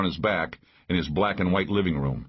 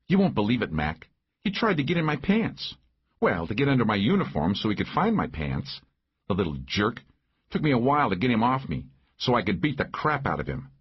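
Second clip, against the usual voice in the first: somewhat higher female character; lightly voiced indignant woman sheriff; 3 semitones higher than usual. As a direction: complain with mild disgust. Narrator voices indignant Maggie.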